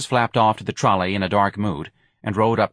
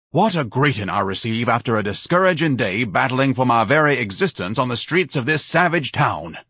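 lightly voiced grandiose martyr; mildly theatrical indignant complaint; pompous self-pity; 3 semitones higher than usual. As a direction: lament with a touch of haughty drama. Pompous Ignatius complains to mother.

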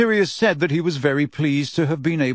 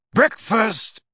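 loud and joyful; 8 semitones higher than usual. A narrator's reading. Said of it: "said Sirius loudly and joyfully".

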